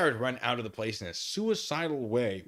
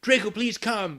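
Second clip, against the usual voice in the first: pleading cry; 10 semitones higher, 6 dB louder than usual. Acted. Reading a pleading fanfic line.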